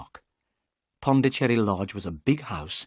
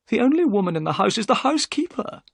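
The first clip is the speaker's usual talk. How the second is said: higher, eager gentleman's voice; Thaddeus Sholto; 12 semitones higher, 3 dB louder, faster than usual. A narrator's reading. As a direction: voice the excitable host. Sholto's voice in the story.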